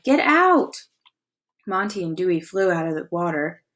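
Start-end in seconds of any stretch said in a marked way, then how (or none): 0.0-0.8 cry out. Acted. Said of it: "Chet cried".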